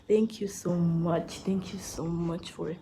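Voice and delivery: breathless, puffing between words; out of breath. Real, not acted. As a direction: talk while catching your breath. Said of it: "I'm out of breath".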